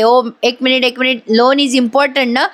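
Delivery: slow, halting mock English; stall, then grope for English words; imitating a bluffer stuck for words; faltering English bluff. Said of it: "तिला काही English बोलता येईना".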